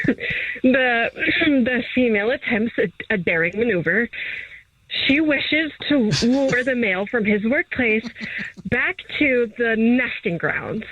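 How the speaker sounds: lightly voiced wildlife narrator, measured pace; David Attenborough. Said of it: "Channel my David Attenborough".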